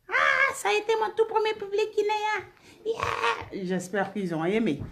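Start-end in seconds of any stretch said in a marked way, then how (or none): 0.1-3.6 excited. Real, not acted. Excited recalling first Guinean audience.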